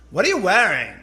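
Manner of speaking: imitated con-artist accent, disdainful put-down; haughty line in a borrowed accent; Anna Delvey's accent. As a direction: mimic the TV character's odd accent. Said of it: "I love her accent".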